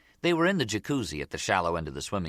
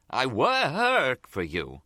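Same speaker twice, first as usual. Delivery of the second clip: high, drawn-out yelp of protest; jump, then plead slowly and high; startled protest; 7 semitones higher, 4 dB louder, much slower than usual. A narrator's reading. Nicky jumps while complaining to his boss, startled protest.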